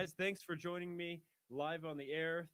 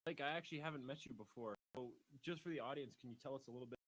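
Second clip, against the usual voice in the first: audio cutting out; faint, broken-up audio; tape dropouts; 3 semitones lower, 8 dB quieter, faster than usual. Real, not acted. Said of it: "Is audio cutting out for you?".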